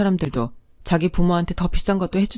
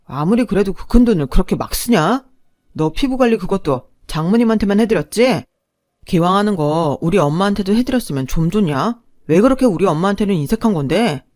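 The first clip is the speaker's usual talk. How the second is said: louder, aggrieved whining accusation; drunken complaint; 5 dB louder than usual. Acted. Drunk husband loudly accusing wife of stinginess. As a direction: push back, sulky and loud.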